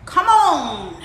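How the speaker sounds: loud, drawn-out call; yelled call. A narrator's reading. Muddy old sow calls after gingerbread man, yelling. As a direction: holler it after the runaway. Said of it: "yellowed the muddy old sow".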